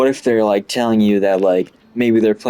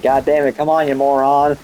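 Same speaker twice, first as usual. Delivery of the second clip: higher-pitched joking telling-off; goofy mock scolding; 5 semitones higher than usual. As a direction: imitate a teacher scolding in jest. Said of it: "He would just say goofy things like that".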